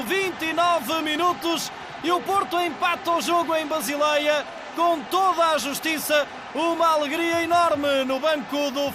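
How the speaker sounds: goal celebration shout. Real, not acted. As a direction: roar the goal with delight. Goal scored, commentator erupts.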